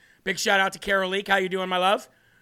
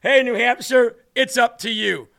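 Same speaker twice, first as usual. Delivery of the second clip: louder, hammed-up ad voice; Chris Christie impression; 2 semitones higher, 5 dB louder than usual. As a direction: overdo the politician's ad sign-off. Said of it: "I'm Chris Christie".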